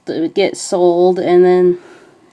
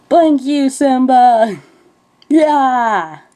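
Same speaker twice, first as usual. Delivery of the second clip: higher, hammed-up curse; mock angry; 6 semitones higher, much slower than usual. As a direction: spit the insult in a high voice. Retold insult.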